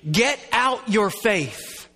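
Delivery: slow, firm order; commanding and deliberate; emphatic command. Retold or imitated. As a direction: draw out each word as a demand. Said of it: "could be translated".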